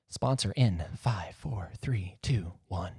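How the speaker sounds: slow whispered countdown to the ad. Pretend. Host counting down to the sponsor break, whispered. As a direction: hush it like a secret countdown.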